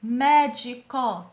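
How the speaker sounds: "Médico" very slowly split into mé, di, co; syllable by syllable. Shown as a demonstration. Teacher showing three syllables, syllable by syllable. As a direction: say "Médico" in three loud, separate beats. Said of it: "três sílabas".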